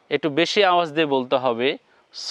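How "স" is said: "স" with the vowel held long. Shown as a demonstration. Teacher showing viewers a lengthened vowel, "স" drawn out long. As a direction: draw out "স" in one sustained tone. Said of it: "দীর্ঘ হবে".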